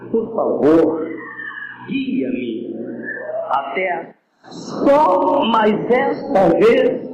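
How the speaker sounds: put-on blind Samson begging the boy and God, pleading. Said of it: "falou com aquele moço".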